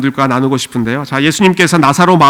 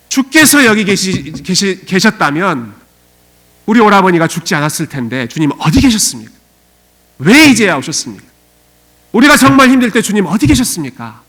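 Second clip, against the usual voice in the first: higher, pleading cry, half-sobbed; wailing plea; 3 semitones higher than usual. Shown as a demonstration. Mary wailing at Jesus for coming too late, crying aloud. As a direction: cry it aloud in grief, broken off. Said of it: "소리를 외치면서 울부짖으면서".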